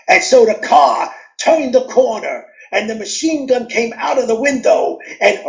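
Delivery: high, theatrical storytelling voice; dramatic gangster story reading. Retold or imitated. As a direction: act it out like a radio thriller. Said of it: "I acted it".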